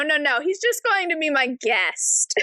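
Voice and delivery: usual speaking voice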